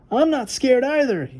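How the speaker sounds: put-on a boy insisting he is brave; yelling. Boy shouting back at his sister, indignant mock yell. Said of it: "yelled Arthur".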